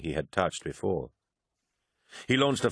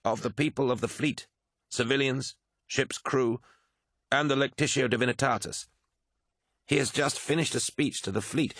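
higher-pitched, deferential officer's report; reporting adviser; 5 semitones higher than usual. Acted. Malachhurst briefs Horus on the fleet speech, higher deferential voice. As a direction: report bad news to a commander, pitched up.

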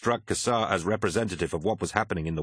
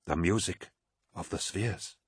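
softly spoken, trailing softer at the end; quiet; 6 dB quieter than usual. A narrator's reading. Sinderman speaking of the spheres, quietly. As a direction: say it quietly, almost to yourself. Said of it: "said Sinderman quietly".

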